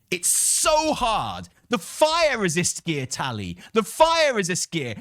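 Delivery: mocking furious chat insulting him; mock angry gamers. Mocking the angry players who doubted him, hammed-up fury. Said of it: "They were like".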